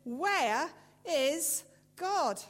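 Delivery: put-on furious preacher shouts the question at the boy; preacher shouting. A narrator's reading. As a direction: bellow it while shaking a fist. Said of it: "raised his voice and shook his fist and shouted".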